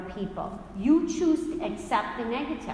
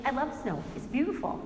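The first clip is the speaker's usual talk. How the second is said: bright upbeat voice, pitched much higher; cheerful insistence; 6 semitones higher, faster than usual. Retold or imitated. Telling the congregation she loves snow, gushing upbeat cheer. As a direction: sell the joy of snow, almost singing it.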